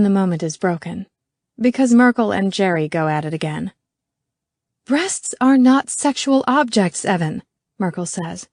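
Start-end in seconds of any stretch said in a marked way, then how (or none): 4.9-7.4 high, slow, emphatic correction; indignant rebuke. A narrator's reading. Merkel rebukes Evan in the meeting, indignant. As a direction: spell it out indignantly.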